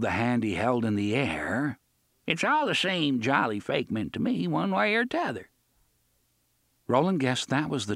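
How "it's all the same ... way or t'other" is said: sickly pirate voice. A narrator's reading. Pirate Gasher speaks.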